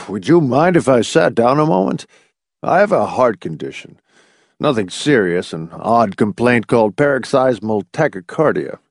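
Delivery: lightly voiced elderly doctor recovering; sigh, then explain apologetically; a hint of a winded old man; old doctor, flustered.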